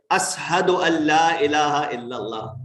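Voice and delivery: ASHHADU said with a plain s for the sh, as-hadu; lisped sheen. Shown as a demonstration. Preacher shows how Bilal called the adhan, sheen lisped to s. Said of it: "lisping, right?".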